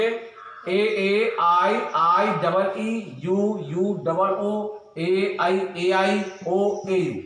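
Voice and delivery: each English vowel letter said clearly and apart; measured letter-by-letter drill; spelling out the vowel letters. Shown as a demonstration. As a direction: call out the letters one at a time for students. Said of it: "means यहाँ पर सब का प्रयोग".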